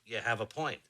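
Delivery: low, softened concession; placid, even giving-in; calm. Acted. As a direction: concede it calmly, voice dropping. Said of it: "When I calmly say".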